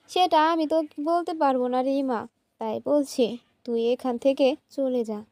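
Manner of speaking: ordinary delivery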